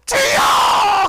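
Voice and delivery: very high, slow, loud 주여; drawn-out cry. Shown as a demonstration. Pastor showing congregation the cry, high, slow and loud. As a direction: stretch the cry to heaven.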